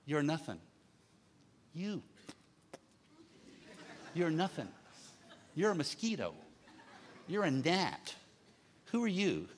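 soft, scornful put-down with a laugh; mild mock contempt of an older brother; sneering brother. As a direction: belittle him quietly, half laughing. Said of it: "He means".

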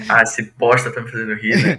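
chuckling through the words; laughing. Retold or imitated. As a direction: laugh while you grumble. Laughing at annoying person's joke.

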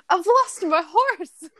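high, slow, distressed Southern belle. Acted. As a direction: wail for the lost horse like a Southern belle. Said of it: "You sound like a Southern belle".

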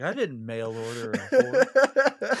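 high, slow, loud goofy voice; silly character voice. Pretend. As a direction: ham up a scandalized character. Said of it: "It's like".

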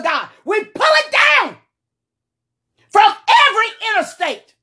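forceful warfare prayer; preaching at full force. Real, not acted.

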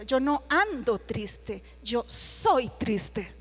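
proud. Retold or imitated. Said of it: "Muy orgullosa".

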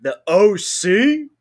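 loud, drawn-out O C with rising pitch; hyped-up name reveal. Shown as a demonstration. Co-host shows how to say the name, hyped-up reveal. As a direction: say it big and slow, climbing to a question. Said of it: "it depends on how you say it".

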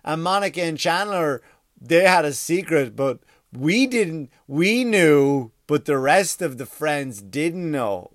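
put-on slow, over-explaining as if to a child; slow patronising imitation of Mindy Kaling; mocking condescending explainer. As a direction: spell it out slowly like talking to idiots. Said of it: "she goes".

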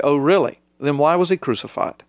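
preacher mocking a skeptic, building sarcasm; sarcastic rebuttal. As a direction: needle him with scornful questions. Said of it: "I always like to look at him and say".

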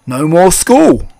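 high, loud, drawn-out cheer; gleeful mouse boy. A narrator's reading. Mouse boy delighted to escape school, gleeful. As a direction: crow it slowly with delight.

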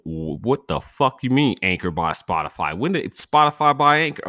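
shrill loud baffled outrage; outraged shock at the app; indignant surprise. Real, not acted. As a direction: burst out, high and loud, in disbelief.

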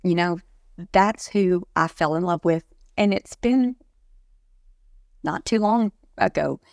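real crying through the words; snotty crying. Real, not acted. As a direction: push on while crying. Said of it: "I'm doing an ugly cry".

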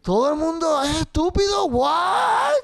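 high, loud, disbelieving; incredulous outburst. Retold or imitated. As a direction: cry out at how dumb everyone is. Mock outrage at everyone.

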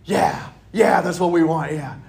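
loud, eager yeah-yeah; eager agreement. Acted. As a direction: overeager disciples cheering themselves on. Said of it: "patting each other on the back".

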